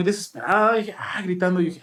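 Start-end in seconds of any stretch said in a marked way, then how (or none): none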